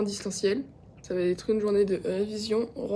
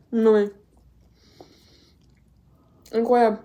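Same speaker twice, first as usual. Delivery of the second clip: excited; 11 dB louder than usual. Real, not acted. Tasting the bread.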